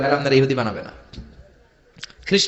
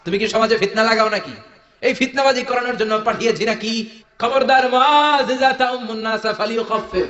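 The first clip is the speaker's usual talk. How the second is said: retold scolding; 5 semitones higher than usual. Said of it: "ধমক দিয়ে বললেন".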